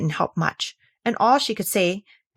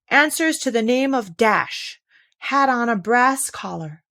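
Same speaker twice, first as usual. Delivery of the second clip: slow, higher notice-reading voice; mock advertisement read; 4 semitones higher than usual. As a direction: read it out like a lost-dog notice. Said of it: "just like the advertisements".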